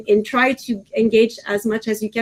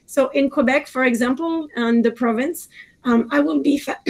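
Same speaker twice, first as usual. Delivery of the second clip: hoarse, worn-out voice; raspy, strained voice; losing voice; 2 semitones higher than usual. Real, not acted. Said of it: "I'm losing my voice".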